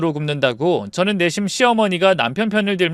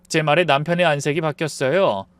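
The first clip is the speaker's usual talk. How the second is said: usual speaking voice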